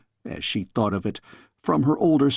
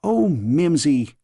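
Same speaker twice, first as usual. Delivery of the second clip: put-on girl's cry; slower than usual. A narrator's reading. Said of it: "cried the girl".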